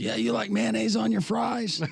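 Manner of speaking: put-on rowdy, high, gruff Boston accent, heckling tone.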